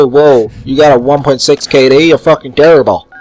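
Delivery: lightly put-on unplaceable accent; mock a lobby kid in some odd accent; a vague mystery accent sneering at a K D. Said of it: "if you have any idea what that accent was".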